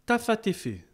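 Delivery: tafatéfé said as four even quick syllables; rhythm syllables. Shown as a demonstration. Teacher naming the rhythm tafatéfé. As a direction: spell out tafatéfé crisply. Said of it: "Elles se disent".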